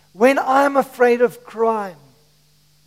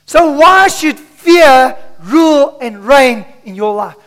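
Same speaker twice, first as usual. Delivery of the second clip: rallying challenge; 3 semitones higher, 6 dB louder than usual. Acted. Preacher challenging the church.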